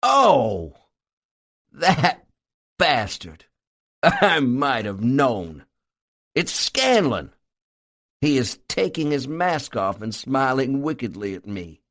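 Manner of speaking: slow, relieved exasperation. A narrator's reading. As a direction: let the fear drain out, annoyed at the joke. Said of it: "with a great sigh of relief".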